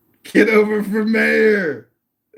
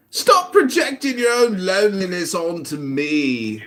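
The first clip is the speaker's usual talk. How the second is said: mock English accent. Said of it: "my English accent is so mocking".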